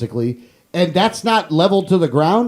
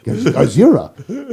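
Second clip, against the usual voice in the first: mock Japanese accent; slower than usual. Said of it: "I can't even do a good Japanese accent".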